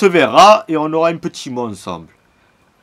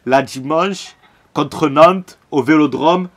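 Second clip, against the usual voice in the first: louder, insistent build-up; building rant; 3 semitones higher, 3 dB louder, slower than usual. Real, not acted. Fan lays out Sunday's match to viewers, building rant. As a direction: stack each detail like a demand. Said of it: "Coup de gueule maintenant".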